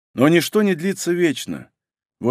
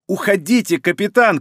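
shout; 3 semitones higher than usual. Acted. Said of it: "крикнул Хикару".

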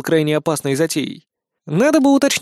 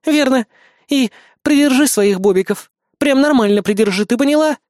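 firm, emphatic warning, pitched up; stern; 8 semitones higher, 4 dB louder than usual. A narrator's reading. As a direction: lay down the order strictly. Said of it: "строго произнесла Синтия". (строго, с нажимом)

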